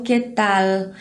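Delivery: "qué tal" with tongue curled up for the L of "tal"; clear final L. Shown as a demonstration. Teacher explains bending the tongue, "tal" with clear L. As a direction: end "tal" on a true L, no U sound. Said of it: "tem que dobrar a língua".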